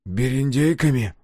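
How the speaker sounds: appalled echo of a word; horrified question. A narrator's reading. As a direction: ask it aghast. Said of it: "уставился в ужасе".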